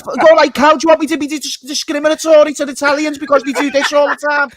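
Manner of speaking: very high, loud mock Italian; Italian accent. Player demanding to be understood, hammed-up Italian accent. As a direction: rant in an over-the-top Italian accent. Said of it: "that doesn't sound Italian".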